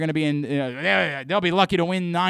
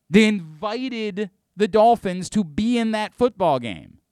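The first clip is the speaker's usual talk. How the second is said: 1 exasperated rant; 7 semitones higher, 6 dB louder, slower than usual. Real, not acted. Angry rant at team.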